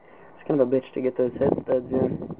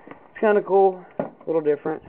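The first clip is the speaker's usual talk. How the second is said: breathless, catching air between words; out of breath; 4 semitones higher than usual. Real, not acted. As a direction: talk winded and short of breath. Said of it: "I'm out of breath".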